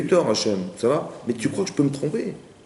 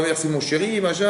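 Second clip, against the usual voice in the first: higher-pitched, demonstrative mock thanks; gushing thanks; 5 semitones higher than usual. Husband modelling the thanks he expected from wife, mock-gushing. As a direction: show how grateful thanks should go. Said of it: "dis-moi".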